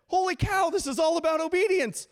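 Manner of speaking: high, loud mock astonishment; loud exclamation. Pastor retelling his reaction to Psalm 119, loud amazed exclamation. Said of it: "I literally out loud".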